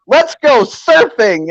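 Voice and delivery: high, drawn-out oblivious enthusiasm; hammed-up cry of excitement, stretched out; mock gleeful cheer. Cartoon people heading out in a hurricane, mock gleeful cheer.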